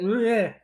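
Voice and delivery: blurted noise of disgust; disgusted bleh. Real, not acted. Host sickened by a stupid name, disgusted bleh. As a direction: spit out a "bleh" of distaste.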